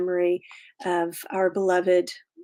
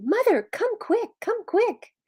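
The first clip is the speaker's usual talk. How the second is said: put-on child shouting; 13 semitones higher than usual. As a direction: call for Mother like an excited boy.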